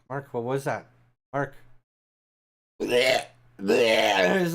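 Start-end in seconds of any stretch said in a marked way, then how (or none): 2.8-3.7 imitating slime noises. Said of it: "he's making those noises".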